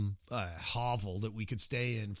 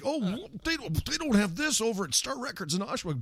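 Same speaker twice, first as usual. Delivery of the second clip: mock excited; 9 semitones higher than usual. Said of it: "We're like".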